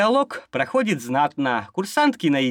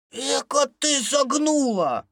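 indignant doctor; 10 semitones higher, slower than usual. Acted. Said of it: "возмутился врач".

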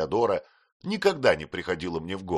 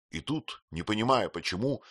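plain reading voice

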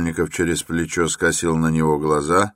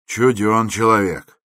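raised, wondering comment; workman remarking; 6 semitones higher, 5 dB louder than usual. A narrator's reading. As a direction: remark on an oddball, voice up. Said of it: "проговорил работник".

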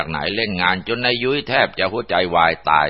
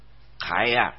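a slightly raised, questioning call; calling out bravely; 3 semitones higher than usual. Acted. Man calling to a possible ghost in the bushes, mildly raised voice. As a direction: force the nerve to ask aloud. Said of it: "ก็แข็งใจถามไปดังๆ".

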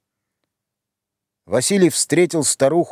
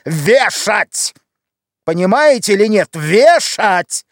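higher, louder, anguished yell; desperate shout; 6 semitones higher, 4 dB louder, slower than usual. Acted. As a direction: hurl the word вешать at her. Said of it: "Василий закричал". (крик отчаяния, громче и выше)

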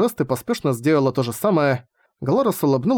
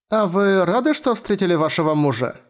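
put-on lightly higher child voice; a small curious girl asking; young girl voice; 5 semitones higher than usual. Latina asks. (голос маленькой девочки)

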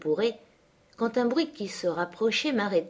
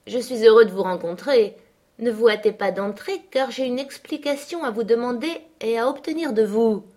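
lightly voiced menacing man, louder; Heathcliff scolding; 3 semitones higher, 3 dB louder than usual. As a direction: threaten the girl with her letters. Heathcliff confronts Cathy. (Heathcliff menaçant, un peu plus fort)

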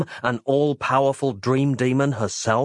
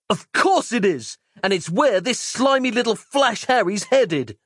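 much higher, blustering shout; cocky hero retort; 10 semitones higher than usual. Acted. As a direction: bluster back defiantly. Mike retorting.

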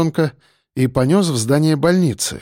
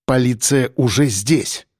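coldly; 2 semitones lower, slower than usual. Acted. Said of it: "холодно проговорил Шульгин".

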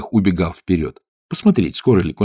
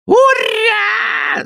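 howling kikimoras. A narrator's reading. Kikimoras block the path with a shrill hurrah. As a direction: yell it out like a shrill swamp imp. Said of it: "завопили кикиморы".

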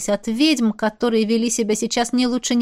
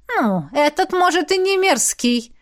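higher, smirking jab; teasing smirk; 7 semitones higher than usual. A narrator's reading. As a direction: needle her with a grin. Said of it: "поддела брюнетку шатенка, ухмыльнувшись". (поддразнивая, с ухмылкой)

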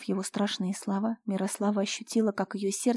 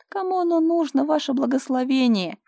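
demonic mockery; 6 semitones higher, 7 dB louder than usual. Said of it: "демонически рассмеялся".

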